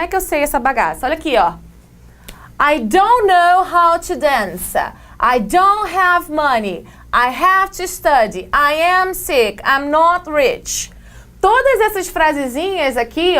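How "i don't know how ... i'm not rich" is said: whiny complaining. Shown as a demonstration. Teacher acting out complaints.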